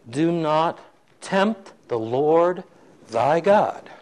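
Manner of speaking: slow, measured scripture quote; acted-out solemn admonition. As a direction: pronounce it slowly with weighty pauses. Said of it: "and I quote".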